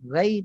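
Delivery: GHAI thin and open; wrong low articulation. Shown as a demonstration. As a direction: keep ghai flat on a low tongue root. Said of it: "tak boleh". (ghai nipis yang salah)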